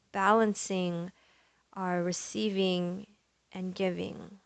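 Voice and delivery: calm, unhurried yoga teacher cueing; measured meditation voice with long pauses; guided meditation. Real, not acted. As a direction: guide them gently into the breath, leaving space. Leads breathing and intention setting.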